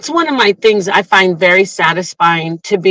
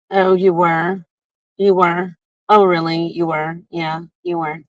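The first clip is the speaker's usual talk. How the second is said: mock disbelief; 4 semitones lower, 5 dB quieter than usual. Sceptical reply to retold excuse.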